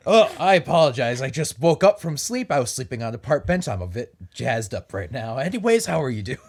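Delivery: a hint of a southern accent. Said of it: "developing a southern accent right now".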